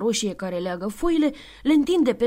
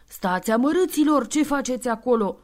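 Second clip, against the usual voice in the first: mild furious shout; 3 semitones higher than usual. Acted. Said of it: "Nebun de furie".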